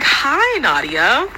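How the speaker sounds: high, sugary mock hello; fake sweet greeting. Classmate greeting Nadia before shoving her, sugary fake hello. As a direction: sing the hi up high like fake friendliness.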